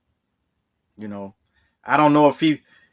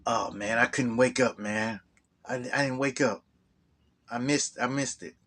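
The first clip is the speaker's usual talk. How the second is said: imitating a friend's low, softer mumbled excuse; sheepish mumble; 3 semitones lower, 10 dB quieter than usual. Phil telling James he overslept, softer sheepish mumble. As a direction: mumble it like you're ashamed.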